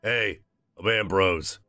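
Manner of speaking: put-on Midwestern accent. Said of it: "he shouts cheerfully in English, in a loose Midwestern accent".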